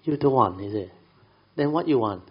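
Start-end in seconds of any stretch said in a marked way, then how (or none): 0.0-0.6 loud, higher startled echo; taken aback. Retold or imitated. Master startled by the dying man's refusal, taken aback. Retells the master's surprised reply. 1.5-2.2 high, loud challenge; exasperated demand. Retold or imitated. Master questioning the man who refused help, exasperated demand.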